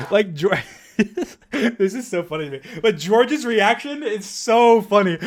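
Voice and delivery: high, giggly delivery through laughter; laughing. Real, not acted. Commentator cracking up over George's funny reaction, laughing. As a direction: barely hold back the laughs.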